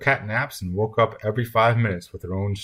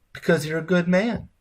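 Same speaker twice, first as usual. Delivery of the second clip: put-on much higher-pitched old lady's reply; grandmother; 10 semitones higher than usual. A narrator's reading. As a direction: answer promptly in a high grandmotherly voice. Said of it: "the grandmother said at once".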